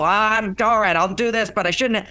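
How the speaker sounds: grumbling. Retold or imitated. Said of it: "if she grumble".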